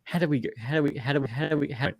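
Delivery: soft, stuttering mock confusion; mock bewilderment. Podcast host acting out losing track of his rant, hushed bewilderment. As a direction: repeat it quietly, as if lost.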